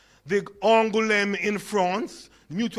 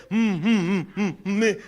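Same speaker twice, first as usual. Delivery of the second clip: stammering hums; stuttering; slower than usual. Retold or imitated. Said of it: "him say".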